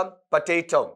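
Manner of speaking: "पोटैटो" as puh-TAY-tau; corrected potato. Shown as a demonstration. Teacher repeating the sound for students, corrected "puh-tay-tau". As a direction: say "पोटैटो" with a weak first vowel and au ending. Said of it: "इसका sound क्या पढ़ेंगे".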